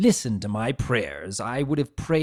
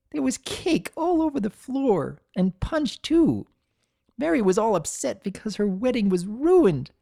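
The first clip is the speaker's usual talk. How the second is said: high, bubbly gossiping mare; giggly, gleeful young pony; Ember's chatter; 7 semitones higher than usual. Acted. Ember gossiping to the statue, high and giddy.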